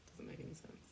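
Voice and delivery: "Doesn't make any sense" whispered, no voice. Real, not acted. Repeats phrase as a whisper.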